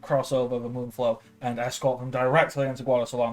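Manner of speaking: a hint of a nervous officer talking his way through; rambling soldier Wedge. Wedge smooth-talking the gate guards, lightly flustered.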